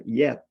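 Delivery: "yet" set apart and punched; a pointed, emphasized "yet"; stress on yet. Real, not acted. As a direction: lean on the word "yet" with deliberate emphasis. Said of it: "putting some emphasis on the word yet".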